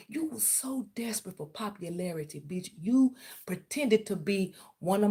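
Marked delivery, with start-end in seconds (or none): 0.1-2.7 soft, unvoiced whisper; whispered insult. Real, not acted. Insulting her rival in a soft whisper. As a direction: whisper the put-down under the breath.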